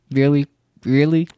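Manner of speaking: disbelief, rising on the second; indignant disbelief. Real, not acted. Vlogger rants about unfair grade, indignant.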